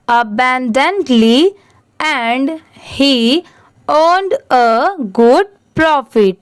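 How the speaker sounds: slow, deliberate reading of an English paragraph; slow story reading. Shown as a demonstration. Teacher reading the paragraph slowly to pupils. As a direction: read it slowly, phrase by phrase, for learners.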